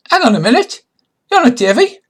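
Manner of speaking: high, loud cry of alarm; shouted challenge. Acted. Pirate spots an impostor on the ladder, shouted challenge.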